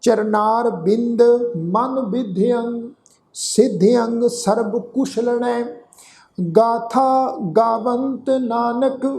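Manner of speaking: slow, drawn-out gurbani chant; slow recitation. Shown as a demonstration. Teacher reciting the whole shlok for the sangat, slow chant. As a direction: lay out every syllable of the shlok slowly. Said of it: "ਇਹਨੂੰ ਫਿਰ ਤੋਂ ਸੁਣੋ ਧਿਆਨ ਨਾਲ".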